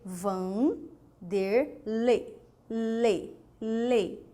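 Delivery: "Vanderlei" slowly split, then "lei" repeated on its own; drawn-out syllables. Shown as a demonstration. Teacher testing which vowel is stronger, drawn-out syllables. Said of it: "Quem é mais rápida? Quem é mais forte?".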